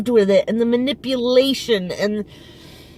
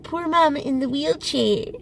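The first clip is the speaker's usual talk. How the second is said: mock self-pitying old mother, higher; mother crying; 6 semitones higher than usual. Daughter mocking her mother's self-pitying tears, higher. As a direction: whine it like a pitiful mother. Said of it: "she starts to cry".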